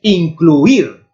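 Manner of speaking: Incluir, demonstrating its stressed last syllable; stress on the final syllable. Shown as a demonstration. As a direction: lean hard on the "ir" ending of Incluir. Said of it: "Aquí a sílaba tónica sí que está".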